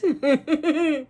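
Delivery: lightly voiced hurt dog; voicing Snoopy. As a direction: play the betrayed dog, half laughing. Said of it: "He's like".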